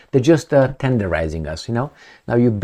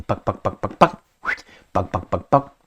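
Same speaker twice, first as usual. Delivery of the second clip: meat tenderizing thuds. Shown as a demonstration. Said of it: "because tendering".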